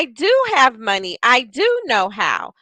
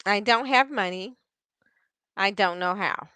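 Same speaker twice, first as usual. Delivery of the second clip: deflated; 2 semitones lower, 6 dB quieter than usual. Shown as a demonstration. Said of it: "Do you hear how her energy went down".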